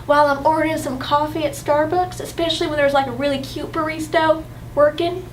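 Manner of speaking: put-on drawling Southern US accent. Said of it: "I always can pull out the Southern".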